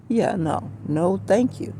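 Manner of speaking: a heated radio host scolding the audience; telling off the callers. Retold or imitated. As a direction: lecture the callers with rising heat. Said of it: "I started telling these people".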